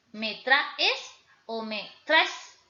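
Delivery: very slow, "traes" said two different ways. Shown as a demonstration. Teacher contrasting "traes" for students, very slowly. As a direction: draw out both versions of "traes". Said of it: "decir las palabras en diferentes formas y diferentes tonos".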